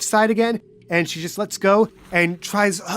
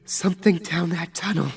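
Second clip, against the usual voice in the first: shaken Angel; 3 semitones higher than usual. Acted. Angel describes the eerie light.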